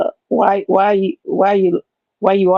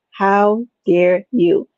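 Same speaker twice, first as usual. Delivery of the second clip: mock outrage; much slower than usual. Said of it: "that's what I said to you".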